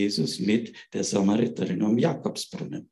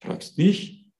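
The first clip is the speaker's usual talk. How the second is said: high, half-whispered astonished question; be taken aback; mock-astonished Samaritan woman; surprised woman; 5 semitones higher, much slower than usual. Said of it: "Die Frau ist überrascht und sagt".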